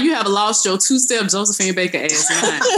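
mock scolding, laughing through the words. Dee scolding her mama, laughing while she says it. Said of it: "I'd be like".

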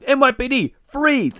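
very high, punched police command; mock police shout. Police confronting the black car, mock shouted command. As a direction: call it out like a hammed-up TV cop.

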